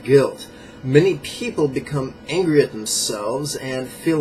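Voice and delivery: measured book-passage reading; emphatic nonfiction read-aloud. Acted.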